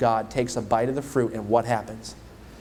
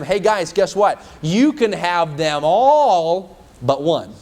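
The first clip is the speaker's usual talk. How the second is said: louder, slow and open-handed; God's generous offer; 5 dB louder, slower than usual. Acted. God telling Adam and Eve, louder and slow. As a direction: offer the whole garden gladly and slowly. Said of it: "God said to them".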